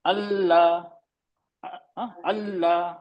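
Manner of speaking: अल्लाह with a middle-length ल्ल; neither press nor flow the ल in अल्लाह; measured doubled l in अल्लाह; medium letter. Shown as a demonstration. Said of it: "तवसुत वाला ले लेते हैं".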